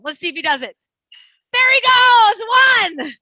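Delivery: high, loud excited cheering; cheering him on. Real, not acted. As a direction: whoop the parrot round the swing. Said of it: "I know I'm gonna be cheering him on".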